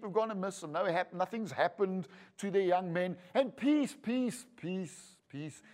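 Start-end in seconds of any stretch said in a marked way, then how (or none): 3.4-5.6 veiled threat. Shown as a demonstration. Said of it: "Am I the only one that sees the inferred?".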